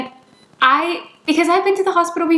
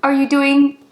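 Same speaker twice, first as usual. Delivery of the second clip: shocked. Retold or imitated. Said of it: "she's in shock".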